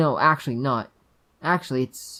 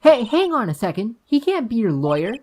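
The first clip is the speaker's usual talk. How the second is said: put-on high, louder young girl protesting; bambina indignata; 9 semitones higher, 7 dB louder than usual. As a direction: object in a higher child's voice.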